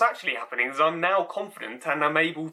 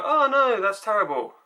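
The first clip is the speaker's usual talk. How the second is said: much higher, louder hammed-up "Oh no"; mock dismay; 7 semitones higher, 5 dB louder than usual. People hearing about the stuck deer, hammed-up dismay. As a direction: overplay the shocked bleeding heart. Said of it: "they go".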